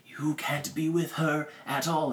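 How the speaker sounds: lightly voiced stern butler laying down the law; mock stern Ramsey. Recapping Ramsey forbidding the marriage, mock stern.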